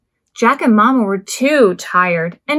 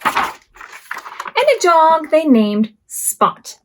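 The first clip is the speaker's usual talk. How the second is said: slow reveal; 3 semitones higher, much slower than usual. Acted. Story ending reveal.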